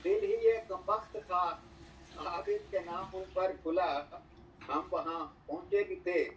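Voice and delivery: stately nazm recitation. Acted. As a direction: recite each line with weight and pauses. Poet reciting verses at mushaira.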